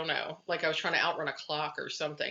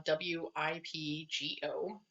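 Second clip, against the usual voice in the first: spelling out letters; 4 dB quieter, slower than usual. Shown as a demonstration. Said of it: "WhipGo is like a bingo board".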